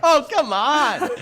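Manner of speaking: high laughing "oh come on"; laughing protest. Real, not acted.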